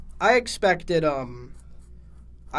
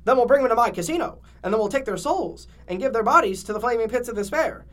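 scheming villain voice; 5 semitones higher, 4 dB louder than usual. Acted.

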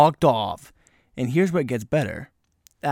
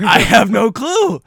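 laughing; 9 semitones higher, 10 dB louder, slower than usual. Real, not acted. Laughing disbelief.

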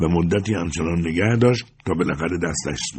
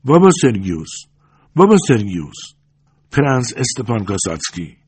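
raised, higher call of a name; loud summons, each name separate; 4 semitones higher, 4 dB louder than usual. A narrator's reading. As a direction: call to someone in another room. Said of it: "با صدای بلندی او را خواند".

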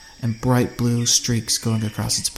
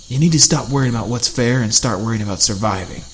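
mildly louder, understated snarl; 4 dB louder than usual. Acted. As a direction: lean into him with a touch of menace. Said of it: "he snarled".

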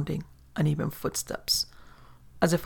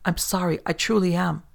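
stammering; 2 semitones higher than usual. Acted. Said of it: "He stammered only".

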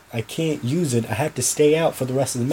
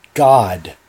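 pained cry; 5 semitones lower, 7 dB louder than usual. Acted. Boy answers under torture.

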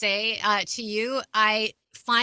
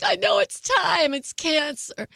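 mock panic; 7 semitones higher, slower than usual. Retelling her own panic.

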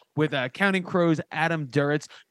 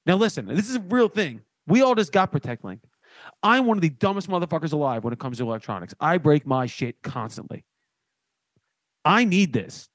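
sponsor ad read. Acted. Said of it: "This is more of the off-the-cuff one".

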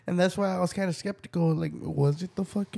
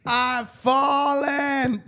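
slow mock ad line; 9 semitones higher, 4 dB louder, much slower than usual.

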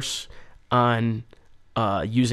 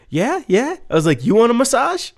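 much higher sing-song agreement; mock hustler; 9 semitones higher than usual. Speaker teasing the masseuse, high mock hustler. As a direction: play the cheeky salesman.

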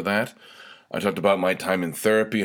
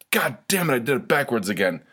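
high-pitched exasperated outburst, falling away; 4 semitones higher than usual. Real, not acted. Host botching the sign-off, exasperated. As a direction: curse your own slip in frustration. Flubs the sign-off, curses himself.

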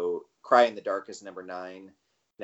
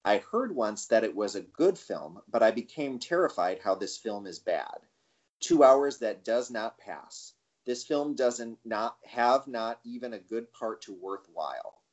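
careful, deliberate read-out; slow reading. Real, not acted. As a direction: read it out slowly and accurately, word for word. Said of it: "I'm gonna read this one slowly".

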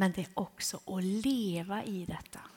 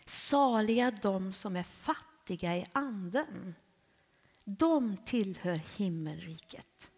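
slow solemn scripture reading; slower than usual. Retold or imitated. Quoting Jesus' beatitude.

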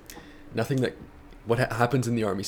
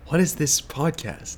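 drill sergeant; 5 semitones higher, slower than usual. Pretend. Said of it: "a drill sergeant thing".

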